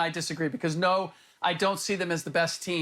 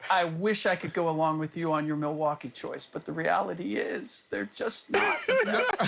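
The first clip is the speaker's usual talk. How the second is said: crisis line counselor; 3 semitones lower than usual. Acted. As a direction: talk like a calm, caring counselor. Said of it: "in my therapist's voice".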